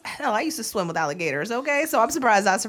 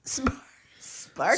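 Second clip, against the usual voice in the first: whispered name; 5 semitones higher, 6 dB quieter, much slower than usual. Real, not acted. Repeating odd charter name.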